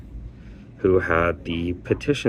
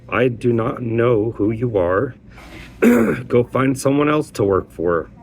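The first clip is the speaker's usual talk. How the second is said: imitating a rude brush-off, higher pitched; 4 semitones higher, 3 dB louder than usual. Coordinator turning away a caller, mock rude. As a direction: retell a curt dismissal with some push. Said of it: "with a very rude voice".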